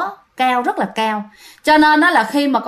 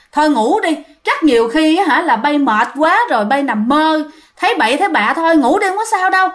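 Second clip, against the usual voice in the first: mild scolding, climbing higher; 3 semitones higher than usual. Acted. Old Bà Tư scolding her daughter-in-law back to sleep, mild scolding. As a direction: brush off her fears with a half-hearted telling-off. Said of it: "thì bà la".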